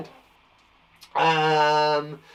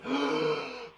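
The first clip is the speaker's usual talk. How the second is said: preparatory gasp; 3 semitones lower, 5 dB quieter than usual. Shown as a demonstration. Cue breath before sounding out.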